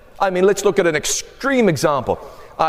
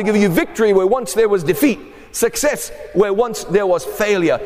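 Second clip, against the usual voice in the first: preaching shout. Real, not acted. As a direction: drive the victory home. Preaching climax, shout heard.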